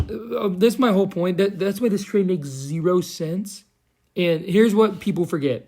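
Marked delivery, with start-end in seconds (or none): 4.2-5.7 Joe Rogan. Pretend. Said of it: "I sound like Joe Rogan".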